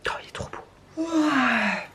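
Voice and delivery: words stretched by a yawn. Real, not acted. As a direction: yawn through it. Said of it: "excusez-moi, je bâille". (en bâillant)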